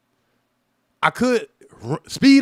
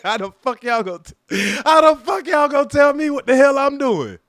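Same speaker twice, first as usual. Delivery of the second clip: retold angry protest; 6 semitones higher, 4 dB louder than usual. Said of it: "I'm like".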